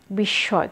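বিস্ময় as bish-shõy; doubled sh, silent m. Shown as a demonstration. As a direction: say বিস্ময় with long sh and no m. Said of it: "বর্ণটিকে দ্বিত্ব করে দিয়েছে".

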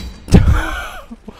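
high unvoiced wheezing laugh; breathless laugh. Real, not acted. Streamer loses the fight and laughs, high breathless wheezing laugh.

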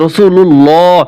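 রাসূলুল্লাহ with thick dark lam; heavy lam. Shown as a demonstration. Teacher showing the heavy lam in the name. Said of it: "আল্লাহ লামটা মোটা হবে".

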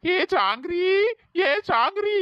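high, sweet pet-name call; affectionate calling. Acted. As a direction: coax the ghost with a fond call. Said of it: "செல்லமா பாசமா கூப்பிடணும்".

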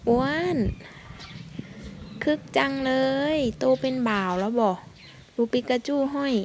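high, bright-eyed coo at a playful calf; excited cooing. Real, not acted. Mahout cooing at the frisky baby elephant, excited.

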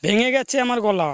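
slow, low hoarse voice; gravelly voice. Pretend. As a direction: drag it out in a rough croak. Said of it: "ভেঙে গেলেও এরকম?".

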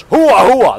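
Army hooah. Retold or imitated. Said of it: "Like the Army says".

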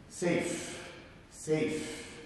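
whispered safe, safe, barely voiced; hushed. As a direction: breathe the word safe twice like a secret. Repeated word hushed in sermon.

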